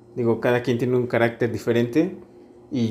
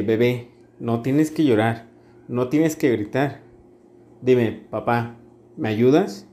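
put-on calm, patient words to his little girl; soothing his toddler without raising his voice; calmly; slower than usual. Father calmly soothing his frustrated toddler daughter, gently reassuring. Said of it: "yo calmadamente".

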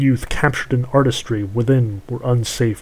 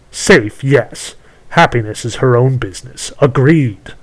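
witch voice; 5 dB louder than usual. Acted. Witch bargains.

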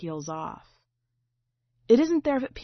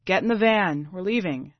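firm father's call; 6 dB louder than usual. Acted. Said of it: "Papa's voice".

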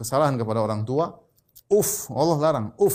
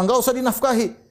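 higher-pitched scolding parent; mock angry parent; 9 semitones higher than usual. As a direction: mimic a parent's angry refusal. Angry parent quoted in example.

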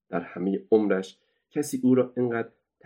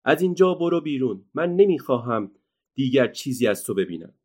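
angry; 5 semitones higher than usual. Acted. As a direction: throw the girl out in anger. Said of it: "با خشم گفت".

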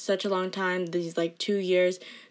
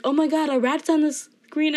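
mocking teacher; 7 semitones higher, 5 dB louder than usual. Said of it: "he was like".

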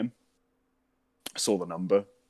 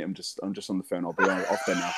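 laughing fake excuse; 3 semitones lower than usual.

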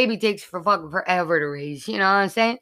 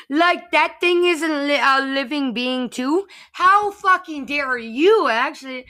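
slow outraged; 4 semitones higher, slower than usual. Acted. Outraged rant at critics.

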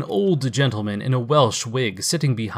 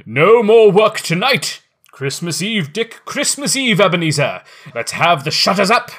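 much higher and louder hearty holler; jovial shout; 7 semitones higher, 7 dB louder than usual. Acted. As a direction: call out the boys like a jolly master. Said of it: "cried old Fezziwig".

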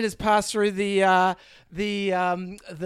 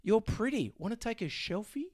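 charmer; 3 semitones higher, 6 dB quieter than usual. Acted. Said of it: "he's the charmer".

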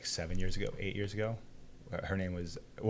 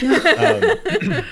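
voice cracking; 12 dB louder than usual. Real, not acted. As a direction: voice cracks up high mid-word. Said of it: "sorry, my voice cracked a little bit".

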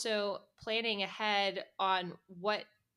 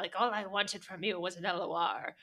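lightly played gloating schemer; a hint of pretend evil mastermind; hammed-up confession of a fake plot; mock villain; 5 dB louder than usual. Mocks herself as a scheming villain.

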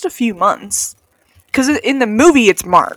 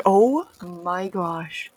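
exasperated oh my gosh; 4 semitones lower, 8 dB quieter, much slower than usual. Retold or imitated. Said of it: "I'm like".

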